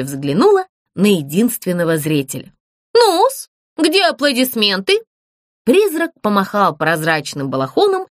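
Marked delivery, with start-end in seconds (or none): 2.9-5.0 a little puppet announcing herself grandly; puppet Zlyunya voice. Acted. Puppet announces herself to the ghost, high and grand.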